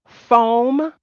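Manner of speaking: PHONE said as "fome"; mispronounced phone. Shown as a demonstration. Mocking how people say telephone, "foam" for PHONE. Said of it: "When you're actually trying to say, like, a telephone".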